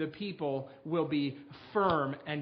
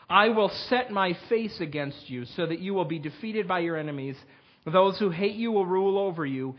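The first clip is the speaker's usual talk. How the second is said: louder, solemn proclaiming of the warnings; scripture reading; 3 dB louder than usual. Acted. Pastor reading the curses to his congregation, solemn and loud. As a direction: read God's warnings with weight. Reads Leviticus curses aloud.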